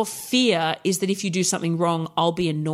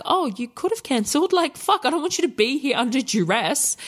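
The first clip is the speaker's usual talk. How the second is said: high breezy reassurance; 6 semitones higher than usual. Retold or imitated. Retelling her reply to client.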